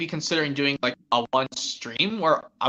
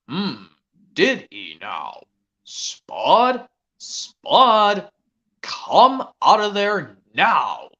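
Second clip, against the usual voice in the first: Farmer Pickles; 3 semitones higher, 5 dB louder, much slower than usual. Retold or imitated. Farmer calls Spud out of hiding, slow and stern. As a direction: call the scarecrow out slowly and firmly. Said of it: "the impression of Farmer Pickles".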